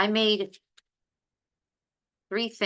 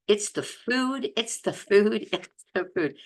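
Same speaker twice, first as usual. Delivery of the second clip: higher-pitched, slowed catchphrase, repeated; imitating a favorite stock answer, pitched up; emphatic catchphrase; 6 semitones higher than usual.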